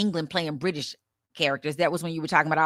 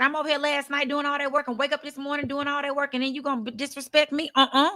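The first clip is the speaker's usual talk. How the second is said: mock offended woman; 7 semitones higher than usual. Retelling an upset woman's complaint.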